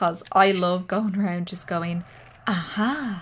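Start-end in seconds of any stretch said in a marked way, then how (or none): 2.5-3.2 exclamation with creepy edge. Doing the sound a game heroine makes picking items up: imitating Lara's aha, sounding creepy. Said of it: "my "aha" sounded so creepy".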